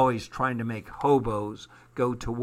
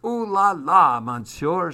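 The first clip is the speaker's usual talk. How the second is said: high, louder ooh-la-la; playful exclamation; 6 semitones higher, 6 dB louder than usual. A narrator's reading. Hobo teasing Armand over his catch, playful exclamation. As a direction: exclaim it high, then ease down.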